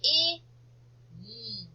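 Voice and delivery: K-I-N as three separate letter sounds; phonics-style K... I... N; sounded out. Shown as a demonstration. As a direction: sound out K-I-N, a gap after each sound. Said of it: "I'm gonna say K for sure".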